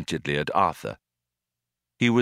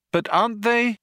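astonished; 14 semitones higher than usual. Acted. Arthur gaping at the mice.

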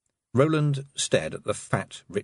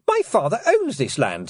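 put-on young Roland voice; 7 semitones higher, 4 dB louder than usual. A narrator's reading. Roland blurts.

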